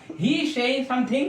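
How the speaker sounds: very slow, word by word; slow dictation. Shown as a demonstration. Teacher reading the example to students, very slowly. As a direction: read it out slowly for the class to copy. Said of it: "teacher dictating example sentence".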